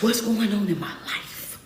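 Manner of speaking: slow, soft, bewildered musing; troubled inner voice. Retold or imitated. Preacher voicing a struggling listener's thoughts, slow and soft. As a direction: drag it out like someone lost and hurting.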